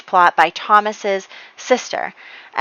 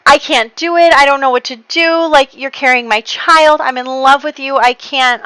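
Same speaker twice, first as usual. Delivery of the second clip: hammed-up anguish, higher and louder; retold crying confession, pitched up without real sobs; mock tearful breakdown; 6 semitones higher, 5 dB louder than usual. Spy confesses his love to Serena, mock tearful breakdown. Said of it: "breaks down crying".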